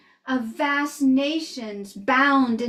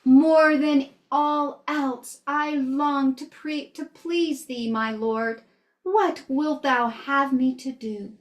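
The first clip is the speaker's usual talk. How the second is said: slow, drawn-out pleading to God; a retold prayer, slowly and solemnly intoned; earnest prayer. Missionary kneels in the woods asking his Lord, earnest prayer.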